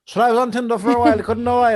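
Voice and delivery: high mocking imitation of her. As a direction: parrot her in a silly high voice. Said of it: "You were saying".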